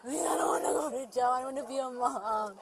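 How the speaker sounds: desperate real plea; begging. Real, not acted. Suspect begging officers not to jail her, pleading. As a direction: plead for your freedom. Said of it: "she started begging to be let go".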